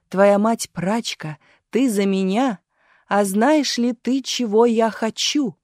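slow theatrical declamation, rising to the question; orator's question. A narrator's reading. Marat addressing the crowd through the girl, declaiming. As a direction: build slowly towards a grand question. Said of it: "вопросил Марат".

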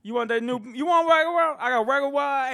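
mock street hawker. Bootleg seller voiced.

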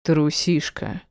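slow, affectionate near-whisper; tender murmur. A narrator's reading. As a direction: tease lovingly, drawing the word out. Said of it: "ласково шепнул".

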